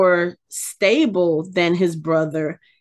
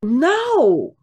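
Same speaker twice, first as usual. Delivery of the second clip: breathy whispered agreement; whispered, emphatic no; 5 semitones higher than usual. Real, not acted. Agreeing the accent is inconsistent.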